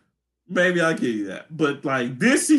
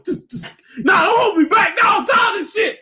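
high shouting fit of fury, fed up; pretend Diggle rage; 12 semitones higher than usual. As Diggle done with the island flashbacks, screaming high. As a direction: yell it like you're being held back from a fight. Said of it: "If I were Diggle".

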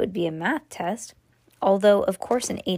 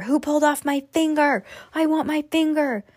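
much higher, louder mummy wail; 8 semitones higher, 3 dB louder than usual. A narrator's reading. Mummy gaining on fleeing boy, wailing higher and louder. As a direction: wail it closer and closer. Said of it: "kept getting louder and louder".

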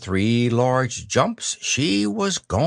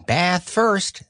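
cheerful, higher-pitched mother; 8 semitones higher than usual. A narrator's reading. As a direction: announce it brightly to a little one. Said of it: "said Kanga in a cheerful voice".

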